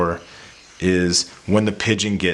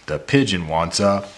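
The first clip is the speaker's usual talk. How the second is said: excited reading; 4 dB louder, slower than usual. Shown as a demonstration. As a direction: slide up excitedly on the word puppy. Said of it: "giving some emotion when you're reading into it, getting excitement".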